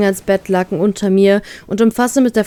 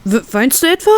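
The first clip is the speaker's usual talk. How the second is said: dismayed; 4 semitones higher than usual. Acted. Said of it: "fragt er mich bestürzt".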